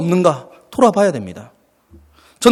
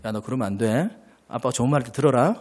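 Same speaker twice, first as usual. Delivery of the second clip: gentle warning; 7 semitones lower, 9 dB quieter than usual. Retold or imitated. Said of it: "처음엔 좋은 말로 하죠".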